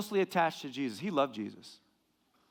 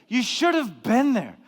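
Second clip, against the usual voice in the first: slowed, higher teasing jab; mock smug taunt; 6 semitones higher, 6 dB louder than usual. Preacher repeating the line friends gloat with, teasing. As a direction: rub it in again. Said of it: "I hate that when people say that".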